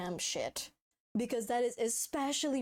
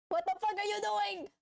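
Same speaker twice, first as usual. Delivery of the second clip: surprised; 10 semitones higher than usual. Real, not acted. Reacting to the art.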